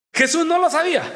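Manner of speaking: ordinary delivery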